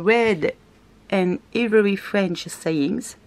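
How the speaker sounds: slow English with a French accent. Real, not acted. Vlogger reading out a paper's English name, French accent. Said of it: "vous avez tout compris à mon anglais".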